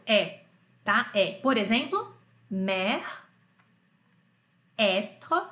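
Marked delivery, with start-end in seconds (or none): 0.0-1.3 "É" as a wide open "eh". Shown as a demonstration. Teacher showing grave and circumflex accent sound, open "É". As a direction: open the vowel fully on "É". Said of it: "o som aberto".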